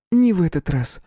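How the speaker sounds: defiant. A narrator's reading. Princess defies hunter.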